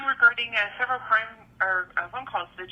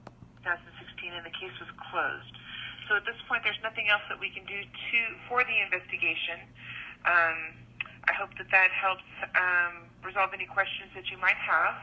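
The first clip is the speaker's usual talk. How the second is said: recorded phone message; leaving a voicemail. Real, not acted. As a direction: voicemail over a phone line. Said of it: "here's a phone call I received".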